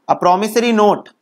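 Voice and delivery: very slow, word by word with long pauses; slow dictation. Shown as a demonstration. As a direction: dictate each phrase slowly so it can be written down. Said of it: "तुमको ऐसे पढ़ना है".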